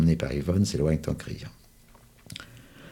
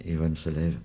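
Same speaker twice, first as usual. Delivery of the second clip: usual speaking voice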